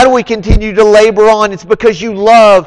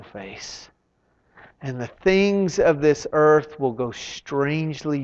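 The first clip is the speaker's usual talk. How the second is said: reverent hymn recital; 6 semitones lower, 10 dB quieter than usual. Acted. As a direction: let each phrase sink away into quiet.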